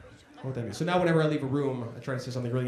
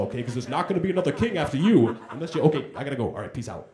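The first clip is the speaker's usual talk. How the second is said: hurried Mufasa; 3 semitones lower than usual. Pretend. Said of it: "it would have gone like this".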